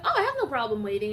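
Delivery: breezy, happy to wait; jovial man waves her ahead, quick and bright. Retold or imitated.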